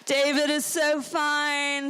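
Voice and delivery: put-on dreamy, slow, gushing girl voice; lightly voiced lovestruck camp friend; swooning teen girl. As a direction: swoon over the cute boy. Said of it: "she'd be like".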